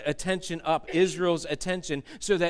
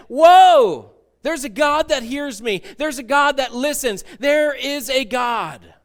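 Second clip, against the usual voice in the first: high, loud awestruck exclaim; amazed worship; 6 semitones higher, 9 dB louder, slower than usual. Acted. Freed slaves worshipping God: loud amazed outcry. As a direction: burst out in wonder that God is real.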